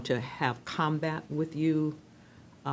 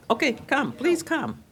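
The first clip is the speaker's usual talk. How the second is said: higher, calling across room; 9 semitones higher, 4 dB louder than usual. Real, not acted. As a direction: call them up warmly. Chair calls speaker to podium.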